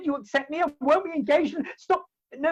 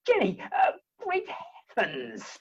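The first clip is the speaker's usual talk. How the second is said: mock swoon; 4 semitones lower, slower than usual. Suitor feigning a faint before Jenny, gasping. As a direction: gasp then sink low and slow.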